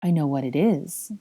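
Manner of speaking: understated, stunned repetition; subdued, dazed realisation; utter shock. Acted. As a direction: say it to yourself in shock. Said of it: "repeated in utter shock".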